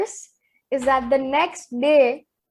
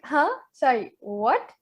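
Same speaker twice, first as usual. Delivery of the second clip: disbelieving. Retold or imitated. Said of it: "I was in disbelief".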